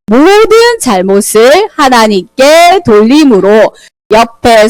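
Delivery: very slow, deliberate reading aloud; slow scripture reading. Acted. Teacher reads the Bible verse aloud slowly to the children. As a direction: read each phrase out slowly for young listeners.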